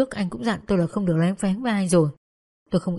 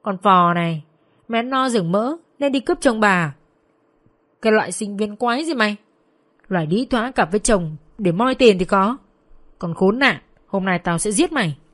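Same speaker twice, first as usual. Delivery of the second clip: raised, punched-out angry insults; half-shouted fury at a rival; angry yelling; 3 dB louder than usual. Acted. Tú attacks Vân over her husband, angry yelling. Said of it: "Con Tú vừa đánh vừa hét".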